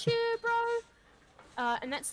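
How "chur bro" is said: higher, matey Kiwi sign-off; hammed-up Kiwi bro voice; New Zealand accent. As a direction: play a chummy New Zealander. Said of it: "New Zealanders are just like".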